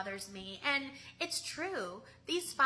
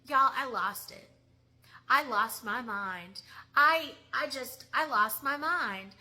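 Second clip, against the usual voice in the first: real anger; 4 dB louder than usual. Real, not acted. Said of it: "'cause I'm mad".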